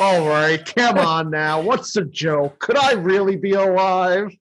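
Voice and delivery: lightly voiced bewildered snowman; a touch of existential crisis, rising at the end; Frosty. Frosty doubting he is alive, mildly bewildered voice. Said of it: "an existential crisis when he comes to life".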